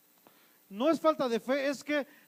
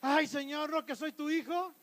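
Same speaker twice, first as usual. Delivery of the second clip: higher, softer plaintive whine; mock complaining; 4 semitones higher, 3 dB quieter than usual. Robbed believer complaining to the Lord, mild mock whine. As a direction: lightly whine in mock reproach.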